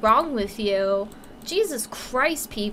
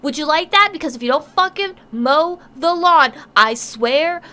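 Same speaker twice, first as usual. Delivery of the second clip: mock furious parent; 3 semitones higher, 7 dB louder than usual. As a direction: scream at the lazy kid like a furious mother. Mock angry parent rant.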